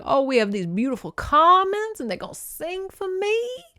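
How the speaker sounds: lightly voiced delighted impresario; Big Daddy impression. Director greeting the singers, gushing. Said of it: "Big Daddy John Goodman vibes".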